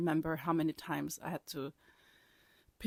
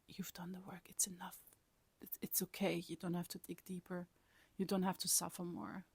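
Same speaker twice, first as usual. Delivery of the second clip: much softer, hushed and close; soft whispered reassurance; tender whisper; 8 dB quieter than usual. Retold or imitated. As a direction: whisper it like comfort to a crying child. Retelling the spirit's kind message.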